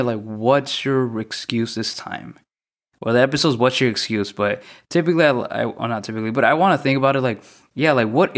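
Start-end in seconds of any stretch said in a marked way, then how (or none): 0.2-2.3 slow, deliberate title read, every word spaced; title announced slowly. Shown as a demonstration. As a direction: announce the show's name, drawn out. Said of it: "that's why I kinda wanted to name it".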